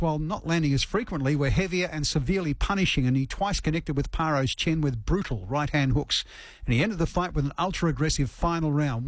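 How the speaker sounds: measured radio news read. Acted. Radio host introduces the boxing story to listeners, news read.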